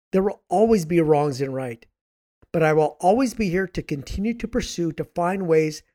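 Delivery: tired, raspy voice. Real, not acted. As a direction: speak with a raspy voice. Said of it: "Sorry for the raspy voice".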